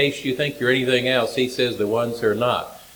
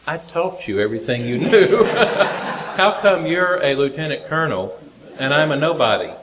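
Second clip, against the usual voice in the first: half-laughing, raised voice of grievance; laughing mock complaint; 3 semitones higher than usual. Preacher mocking his own envy, laughing. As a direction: gripe to God with a laugh.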